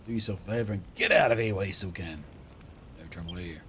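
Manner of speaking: lightly voiced rustic barman; a hint of gloomy old local; embittered old barman. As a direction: lament the lost boom, then warn off.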